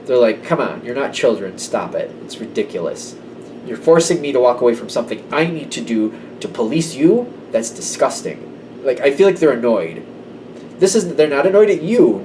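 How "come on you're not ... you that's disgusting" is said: quietly fed-up, disgusted scolding; soft scornful reprimand, trailing off. Retold or imitated. Fed-up authority scolding squabbling people, quietly disgusted.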